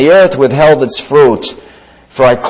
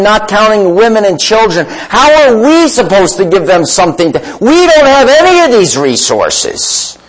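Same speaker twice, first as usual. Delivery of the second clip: fretting disciples; 5 semitones higher than usual. Retold or imitated. Disciples fretting over feeding crowd.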